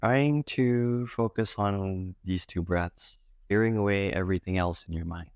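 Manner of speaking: calm meditation guide with long pauses between phrases; guided meditation. Acted. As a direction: gently guide them into breath awareness, leaving space. Leads a guided breath meditation.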